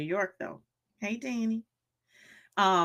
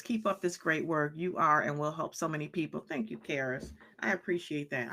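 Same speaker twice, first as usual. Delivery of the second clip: ordinary talk, nothing marked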